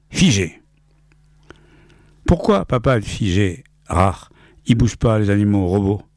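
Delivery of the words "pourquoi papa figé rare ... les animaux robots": put-on child's voice. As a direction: ask like a small curious son. Child asks father in story.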